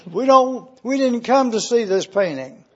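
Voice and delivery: loud, indignant protest that builds to a shout; angry bidder. Acted. Impatient bidder protests the son's painting, angry shout. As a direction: complain hotly to the auctioneer. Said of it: "Another voice angrily".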